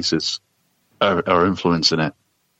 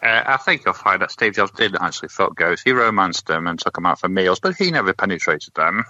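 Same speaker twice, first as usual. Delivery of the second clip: lightly put-on know-it-all nerd; a hint of a pedantic nerd correcting you; mildly voiced smug geek. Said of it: "it was my nerd voice".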